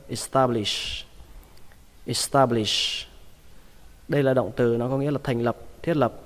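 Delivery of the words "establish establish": establish with an unaspirated t in "ta". Shown as a demonstration. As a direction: say "ta" rather than "tha" inside establish. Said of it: "đọc ta thì nó dễ hơn". (đọc establish với âm "ta" không bật hơi)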